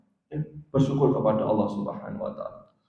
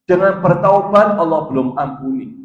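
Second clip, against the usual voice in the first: louder and higher, emphatic; emphatic preaching; 4 semitones higher, 6 dB louder than usual. Real, not acted. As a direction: drive the phrase home from the pulpit.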